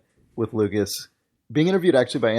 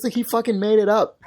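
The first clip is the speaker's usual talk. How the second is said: usual speaking voice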